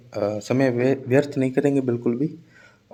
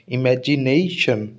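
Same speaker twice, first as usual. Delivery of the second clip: slow इमेजिनेशन with "ने" held long; demonstrative stressed pronunciation; much slower than usual. Shown as a demonstration. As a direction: pronounce इमेजिनेशन for learners, stretching "ने" before a falling "शन". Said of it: "ऐसे pronounce करके बता रहा हूँ". (इमेजिनेशन धीरे, "ने" पर ज़ोर देकर)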